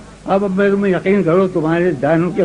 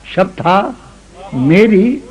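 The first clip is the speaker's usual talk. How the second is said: ghazal recitation. Acted. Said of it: "یہ غزل سنو".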